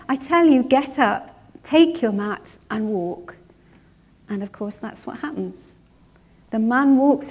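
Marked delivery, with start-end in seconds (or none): 0.1-3.4 louder, firm command to rise; commanding Jesus. Acted. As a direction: order him up with authority. Jesus commands the healed man.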